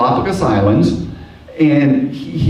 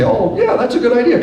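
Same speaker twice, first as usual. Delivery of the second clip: mock enthusiasm; 10 semitones higher, faster than usual. Teacher mock-agreeing with students.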